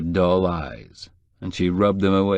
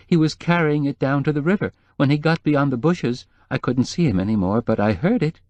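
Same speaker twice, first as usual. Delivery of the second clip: higher, anxious housekeeper voice; lightly voiced worried housekeeper; nervous housekeeper; 5 semitones higher than usual. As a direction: play the fretful housekeeper, pitched up.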